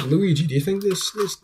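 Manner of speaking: put-on half-hearted Mario accent. Reviewer retrying Mario's line to Luigi, half-hearted Mario accent. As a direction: lightly attempt a Mario accent. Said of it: "I can't do the accent".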